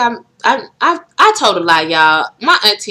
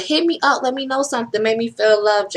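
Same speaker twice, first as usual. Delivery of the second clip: playful plea; 6 semitones higher than usual. Real, not acted. Pleading sign-off to viewers.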